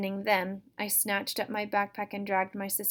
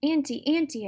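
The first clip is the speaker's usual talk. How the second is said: higher, louder call for Auntie; crying out; 7 semitones higher, 6 dB louder than usual. Acted. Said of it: "it cried".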